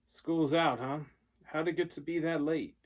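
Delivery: lightly voiced dazed dad; a hint of a sleepy, confused father; groggy father.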